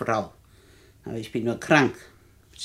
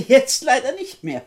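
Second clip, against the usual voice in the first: high, louder mocking laugh; defiant laugh; 7 semitones higher, 5 dB louder than usual. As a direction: laugh in the intruders' faces. (höhnisches Lachen)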